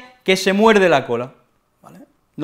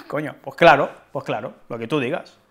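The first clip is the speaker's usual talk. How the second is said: sarcastic, softer murmur; ironic agreement; 3 semitones lower, 3 dB quieter than usual. Shown as a demonstration. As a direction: agree while meaning the opposite. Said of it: "Uno de ellos es irónico".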